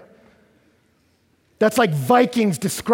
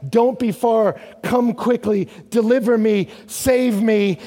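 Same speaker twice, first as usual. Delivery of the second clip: louder, higher pleas; crying out for help; 5 semitones higher, 4 dB louder than usual. Acted. Psalmist crying out to God, loud pleading. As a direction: plead for rescue, short and urgent. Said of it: "So he's crying out".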